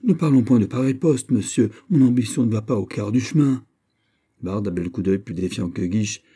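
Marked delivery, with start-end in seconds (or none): 0.0-3.6 higher, emphatic disclaimer; hastily waving off too grand an offer; modest protest. Acted. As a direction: protest with animated insistence.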